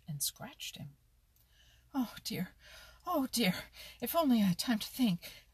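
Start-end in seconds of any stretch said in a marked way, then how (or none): 1.9-2.6 breathless frightened whisper; scared little mouse, whispering; panting. A narrator's reading. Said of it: "panted Danny Meadow Mouse". 3.1-3.6 high, louder frightened cry; terrified mouse crying out; panting. A narrator's reading. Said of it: "panted Danny Meadow Mouse". 4.0-5.5 high, fast and breathless; hunted mouse fleeing the fox, panting. A narrator's reading. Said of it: "panted Danny Meadow Mouse".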